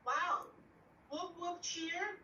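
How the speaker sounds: bright, high whoop of praise; excited cheer. Real, not acted. Teacher cheering a student's story.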